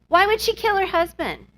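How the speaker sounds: high-pitched mock incredulous question; imitated bafflement. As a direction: quote a baffled husband, voice jumping up. Acting husband's baffled question.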